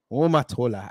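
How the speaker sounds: put-on "Omotola" said low and even in an African accent; African accent name. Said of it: "we will do it in the African accent".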